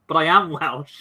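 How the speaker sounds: lightly imitated indignant Welsh actor; mock protest in a Welsh voice; a hint of a Welshman insisting; Anthony Hopkins. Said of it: "Anthony Hopkins said before in a film".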